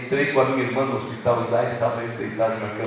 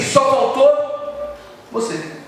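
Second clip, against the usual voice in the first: very slow and much higher, lingering on each word; a father gently missing his absent son; wistful, drawn out; 9 semitones higher, 3 dB louder, much slower than usual. Retold or imitated. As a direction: let the longing stretch every word out.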